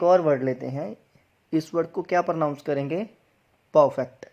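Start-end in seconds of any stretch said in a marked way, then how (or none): 3.7-4.3 परफेक्ट as "puh-fect", no r; silent R. Shown as a demonstration. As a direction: drop the r in परफेक्ट. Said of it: "आर के बाद दोबारा consonant है". (परफेक्ट में आर silent)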